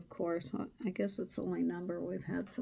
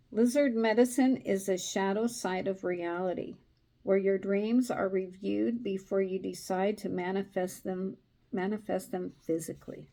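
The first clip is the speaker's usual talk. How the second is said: steady storytelling read; story narration; 3 dB louder than usual. A narrator's reading. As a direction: read the tale to a listener. Card meaning read aloud.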